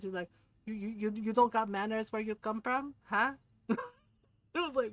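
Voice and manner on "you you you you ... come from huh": mock scolding in a Filipino mother's accent; retold mad mom. Mom tells off a rude relative, mock-mad in Filipino accent. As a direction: imitate an indignant Filipino mom. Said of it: "she was so mad".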